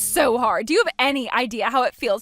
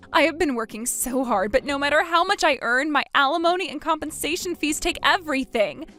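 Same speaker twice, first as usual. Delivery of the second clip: pleading; 4 semitones higher than usual. Acted. Man pleading about alimony.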